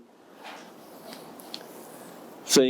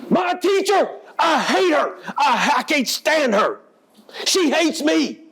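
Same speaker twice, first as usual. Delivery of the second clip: furious shout; 13 semitones higher than usual. Retold or imitated. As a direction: shout it out in rage. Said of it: "She is mad".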